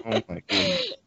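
laughing it out, squeaky high and soft. Real, not acted. Host laughing at the guest's retro games, high giggly delight. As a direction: let the words ride on a giggle.

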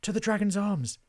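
high, loud urgent call; rally everyone with a shout; rallying order. A narrator's reading. Mulch sends the friends to the inn, shouted order. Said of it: "ordered Mulch".

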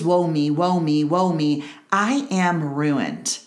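lightly whiny self-pity, drawn out at the end; a hint of wallowing, slowing on I am ruined; mock poor me. Preacher mimicking her old self-pity to the congregation, mild whine. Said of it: "dragging along the poor me".

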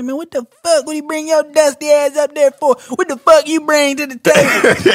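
retold snap. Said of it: "Dak told me he snapped on somebody".

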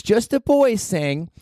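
high, drawn-out instruction to the crowd; a singer. Retold or imitated. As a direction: stretch it out high like the singer onstage. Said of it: "she goes".

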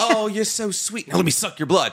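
lightly put-on fancy British accent; Astarion. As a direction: play a swooning, posh British vampire. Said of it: "He's like Bridgerton hot".

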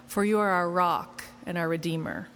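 solemn opening prayer; spoken prayer. Real, not acted. Opens sermon with prayer.

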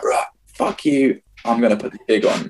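retold defiance. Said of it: "and I was angry".

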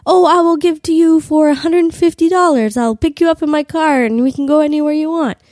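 mock accent of a Costa Rican salesman; Costa Rican accent imitation. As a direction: put on the tour agent's Costa Rican lilt. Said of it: "and he was like".

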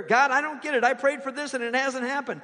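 confused and let down, pleading why; mock exasperated plea; frustrated prayer. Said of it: "That's a prayer".

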